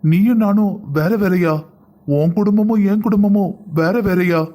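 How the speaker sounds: slow, wounded plea; hurt pleading. Acted. Husband pleading with wife not to divide families, slow and hurt. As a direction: ask her slowly, hurt.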